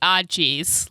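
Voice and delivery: drawn-out Midwestern ah jeez; Minnesota accent. Shown as a demonstration. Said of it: "gotta say it like".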